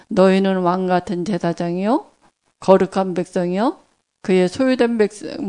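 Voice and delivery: measured recitation of a verse; scripture recitation. Acted. Preacher quoting 1 Peter to the congregation, reverent recitation.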